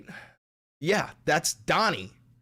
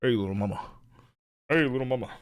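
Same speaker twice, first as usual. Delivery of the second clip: Johnny Bravo voice; 5 semitones lower, much faster than usual. Retold or imitated. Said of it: "you sound like Johnny Bravo when you do the voice".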